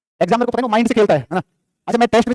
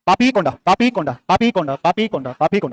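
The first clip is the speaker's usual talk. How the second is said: slow drill; slower than usual. Shown as a demonstration. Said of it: "कहाँ पे है?".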